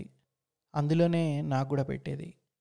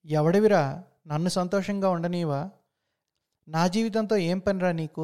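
furious yell; 2 semitones higher than usual. Acted. Beating the stranger, shouting.

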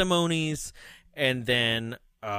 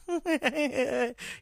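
imitated laugh; 12 semitones higher than usual. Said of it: "finish it off with".

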